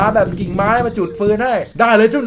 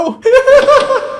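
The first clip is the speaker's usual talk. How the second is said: high, loud laugh; burst of laughter; 7 dB louder than usual. Real, not acted. Gamer laughing at the red car racing, loud laugh. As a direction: crack up suddenly.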